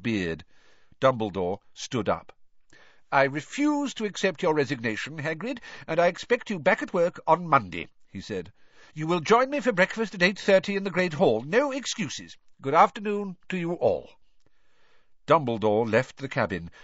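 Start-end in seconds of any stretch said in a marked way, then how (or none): 3.1-7.9 higher-pitched, firm headmaster; Dumbledore, decisive. A narrator's reading. Headmaster refusing a resignation, firm and final. 8.9-14.1 high, brisk headmaster; Dumbledore, decisive. A narrator's reading. Headmaster leaving orders for breakfast, brisk and firm.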